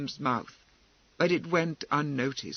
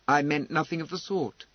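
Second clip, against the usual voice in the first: without heat, final. Acted. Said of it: "without heat, but with finality".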